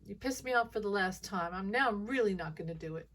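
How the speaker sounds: a light, petulant put-on voice of a defiant judge; taunting and stubborn; lightly voiced judge daring them; mocking judge voice. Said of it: "I hate that voice".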